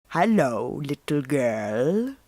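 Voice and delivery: put-on a predator luring a little girl, slowly; sly wolf voice. Evil man disguised as wolf speaks.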